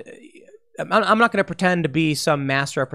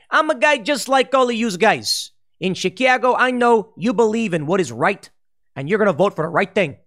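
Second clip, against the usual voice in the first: higher, slightly louder stump-speech voice; mock pandering politician; 5 semitones higher, 3 dB louder than usual. Politician on stage pandering to Chicago voters, mock folksy. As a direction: ham up a folksy candidate playing to the crowd. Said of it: "the politician doesn't talk like that".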